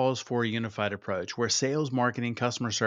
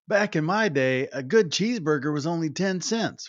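put-on high, loud cranky old man; grandpa voice; 7 semitones higher, 4 dB louder than usual. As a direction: squawk it like a grumpy grandpa. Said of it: "I sound like my grandpa".

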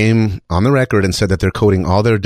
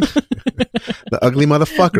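ugly monster voice; 9 semitones higher, slower than usual. Pretend. Mocking himself as ugly beast.

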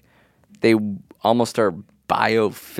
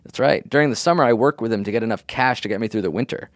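lightly voiced young landscaper; 2 semitones higher than usual. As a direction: read it as a teen landscaper. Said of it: "doing a voice of somebody you assume is a landscaper".

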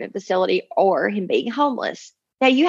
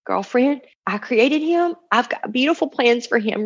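sweet precious voice; 3 semitones higher than usual. Retold or imitated. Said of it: "in a sweet, precious voice".

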